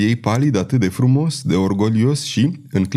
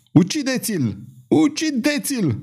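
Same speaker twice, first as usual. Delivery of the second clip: roared order; 13 semitones higher than usual. A narrator's reading. Downed Larchon ordering soldiers to kill, roaring. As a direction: bellow a kill order without full volume. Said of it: "răgni Larchon".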